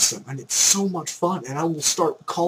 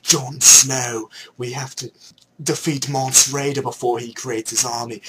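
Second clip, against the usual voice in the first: hammed-up Game of Thrones British accent; terrible British accent; 6 semitones lower, 5 dB louder than usual. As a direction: lower put-on British voice, loud on the name. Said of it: "doing a terrible British accent".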